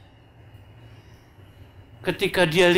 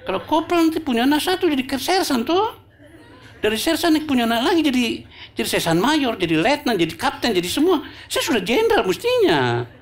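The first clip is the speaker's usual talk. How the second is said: pleading soldier; 9 semitones higher than usual. Acted. Ambonese corporal complains to Bapak.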